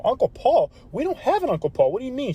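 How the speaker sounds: acted, mildly alarmed confusion; baffled disbelief. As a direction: question it like a stunned dad. Father startled by unknown uncle upstairs.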